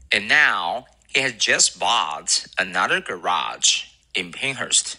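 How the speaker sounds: slow, careful recitation. Shown as a demonstration. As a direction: recite it clearly for students to copy. Recites the model sentence.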